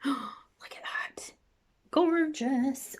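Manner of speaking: breathy gasp, then a high, loud "Gorgeous"; gasping delight. Real, not acted. Makeup vlogger gasping over a duochrome shade, delighted. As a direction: she gasps at the shimmer in the pan and calls it gorgeous.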